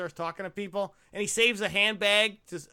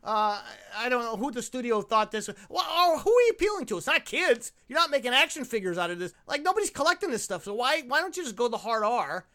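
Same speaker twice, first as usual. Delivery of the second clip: higher-pitched, incredulous griping; exasperated rant; 3 semitones higher than usual. Real, not acted. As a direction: rant at the studio in disbelief. Exasperated rant at the studio's rating.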